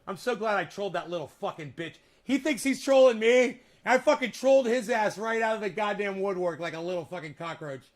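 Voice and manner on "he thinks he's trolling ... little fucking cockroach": gleeful loud boast; loud gloating. Real, not acted. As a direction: crow about the troll, loud. Gloating over trolling a troll.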